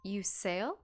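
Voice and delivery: intrigued question, lifting at the end. Acted. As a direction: ask it with impressed curiosity. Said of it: "intrigued and impressed".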